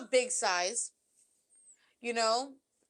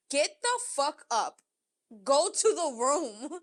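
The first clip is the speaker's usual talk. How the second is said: firm command; 3 semitones higher, slower than usual. Retold or imitated.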